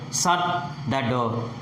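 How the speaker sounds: "Shut the door" with pitch falling at the end. Shown as a demonstration. Teacher showing pitch falls at the end, falling tone. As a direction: stress "Shut", let "door" drop. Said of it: "The pitch falls at the end".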